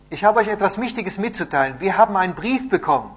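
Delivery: high, loud announcement; proclaiming. A narrator's reading. Messenger tells the captives of important news, loud and proclaiming. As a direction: announce big news to a gathered crowd.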